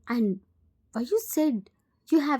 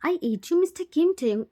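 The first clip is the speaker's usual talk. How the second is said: raised, higher hurt cry; hurt angry outburst; 5 semitones higher than usual. Acted. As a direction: throw it at him in pain. Van lashing out in pain.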